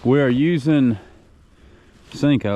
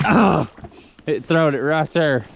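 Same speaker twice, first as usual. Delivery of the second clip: high loud burst; excited shout; 4 semitones higher, 4 dB louder than usual. Real, not acted. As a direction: shout as the fish jumps. Fish jumps at the boat.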